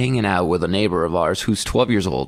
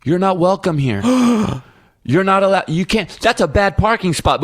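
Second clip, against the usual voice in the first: mock child yelling; 7 semitones higher than usual. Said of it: "She was screaming at the people".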